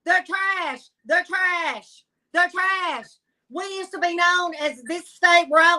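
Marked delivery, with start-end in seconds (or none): 0.0-3.1 Southern dismissive saying. Retold or imitated. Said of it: "As we say in the South".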